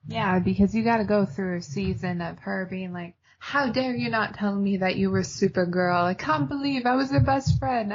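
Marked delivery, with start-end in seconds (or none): 3.4-7.9 put-on British accent. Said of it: "I don't know why I'm doing a British accent".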